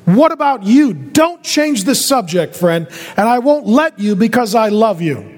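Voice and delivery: insistent preacher, leaning on each question; urgent preaching. Real, not acted. Preacher asks each listener about receiving Jesus, urgent preaching. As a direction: press them hard with every question.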